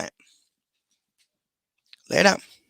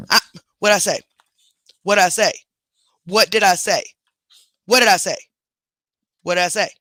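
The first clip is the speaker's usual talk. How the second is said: louder stern repeat of the question; firm scolding; 3 dB louder than usual. Real, not acted. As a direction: demand an answer, firm and loud.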